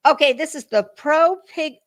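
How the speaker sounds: lips stumbling on the P's; fumbling the P with a stiff top lip; fresh lip flip. Real, not acted. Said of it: "I can't say P's very well either".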